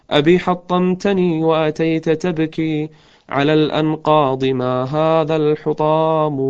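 slow, chanted recital of a lament; slow elegiac verse recital; poem recitation. Acted. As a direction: draw out each line like a mournful poem. Poem continues.

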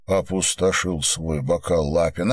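ordinary delivery, nothing marked

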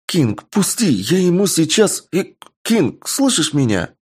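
high-pitched angry demand; angry pleading. Acted. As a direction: yell while fighting to get loose. Amazon struggling, demanding release.

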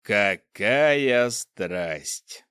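slow, drawn-out mockery; mocking. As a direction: sneer it slowly. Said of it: "издевательски прокомментировал повелитель".

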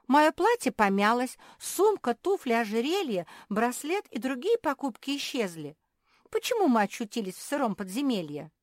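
high, loud tumble of grievances; plaintive complaint. Acted. Naretta complaining to Malum about the dungeon, plaintive. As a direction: reel off the losses indignantly.

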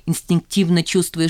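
ordinary delivery

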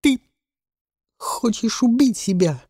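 plaintive sob. Acted. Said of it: "жалобно всхлипнул мальчишка".

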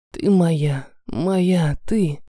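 low possessive male voice; мужской голос. Acted. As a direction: claim her in a low voice. Эмин во время страсти. (низкий властный мужской голос)

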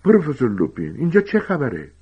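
high, loud cry of alarm; loud shout. Acted. Harry shouts at his professor to learn what's happening, loud shout. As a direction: shout the question out, pitch climbing. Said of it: "با صدای بلندی فریاد زد".

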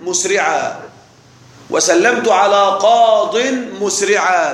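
قاض said slowly, final ya dropped, each word spaced out; slow model sentence. Shown as a demonstration. Teacher dictating the correct example to students, slow and deliberate. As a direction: spell it out slowly for the class. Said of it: "ويقال".

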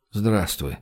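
low, soft mumbled greeting; muttered. A narrator's reading. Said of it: "пробормотал Гош". (пробормотать тихо и низко)

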